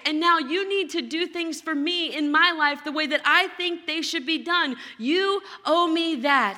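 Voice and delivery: entitled demand. Retold or imitated. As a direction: insist you are owed it. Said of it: "This was".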